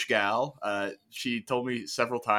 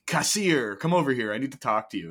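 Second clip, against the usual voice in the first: calling out a name; 4 semitones higher, 4 dB louder than usual. Retold or imitated. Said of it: "be like".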